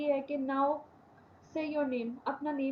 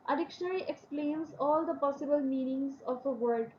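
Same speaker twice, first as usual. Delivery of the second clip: slow dictation reading; much slower than usual. Shown as a demonstration. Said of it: "reading definition aloud".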